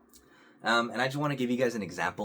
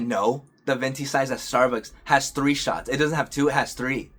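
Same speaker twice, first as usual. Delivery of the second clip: louder, insistent retold objection; mildly raised voice, imitating an argumentative partner; retold yelling; 3 semitones higher, 5 dB louder than usual. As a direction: argue it back with a bit of force. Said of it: "She started yelling at me".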